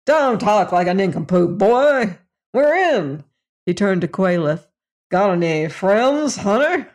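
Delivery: lightly voiced blustering boss; a hint of a leering old businessman; hearty salesman voice. Fader voiced again.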